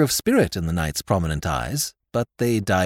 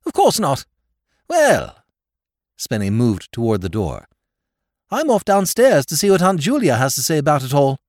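put-on much higher, louder, aggrieved young lord; self-pitying lord; 5 semitones higher, 5 dB louder than usual. A narrator's reading. Lord Drever lamenting to Sir Thomas, self-pitying. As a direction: wail it in a fervour of self-pity.

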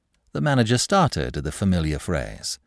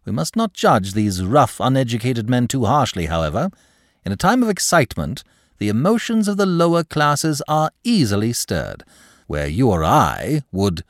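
higher-pitched airy pleading; suave, glib clerk; 6 semitones higher, 4 dB louder than usual. Acted. Clerk excuses rough men to the manager, suave. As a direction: plead the case with lofty smoothness.

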